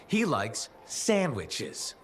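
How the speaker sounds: slow, dry, mocking answer; sarcastic stalling drawl; deadpan sarcasm. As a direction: drag it out to brush off the question. Sarcastic dodge of an interrogation.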